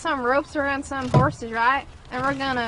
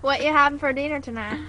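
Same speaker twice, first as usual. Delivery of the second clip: put-on country twang; country accent. Friend asks about dinner in a playful country accent. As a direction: ask it in a pretend country accent. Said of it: "I'm gonna do it the right way".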